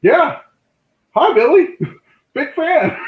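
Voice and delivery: high, loud, laughing nervous greeting; meeting his hero, high giddy laughing hello; starstruck fan. Retold or imitated. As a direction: giggle it out to your hero. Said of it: "I'm like".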